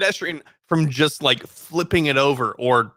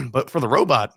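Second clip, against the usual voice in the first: talking past a tickle in the throat; throat catch; 2 semitones lower than usual. Real, not acted. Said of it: "I'm choking on my words".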